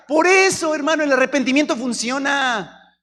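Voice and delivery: high, loud pulpit cry; fiery preaching. Real, not acted. Preacher exhorts the congregation, loud and high. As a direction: drive the point home to the church.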